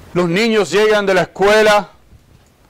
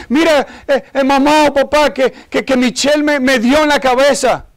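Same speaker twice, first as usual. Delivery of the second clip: higher-pitched complaining kid, lightly acted; mock tearful child; 4 semitones higher than usual. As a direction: imitate a child running to tattle, upset. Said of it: "viene Johnny llorando y gritando". (niño quejándose, imitado)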